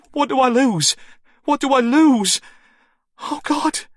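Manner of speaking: high, frantic panic; frantic high-pitched panic; panicked. A narrator's reading. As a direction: voice spiking with fear. Panicked woman on the phone.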